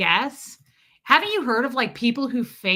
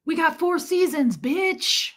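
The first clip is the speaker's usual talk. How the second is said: mock tough-guy brag; 7 semitones higher, slower than usual. Mocking bragging guy.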